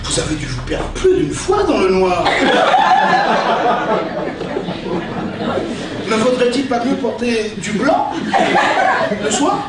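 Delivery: theatrical verse recitation, with pauses; hammy stage actor. Acted. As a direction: declaim each insult like Cyrano. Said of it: "utiliser son style".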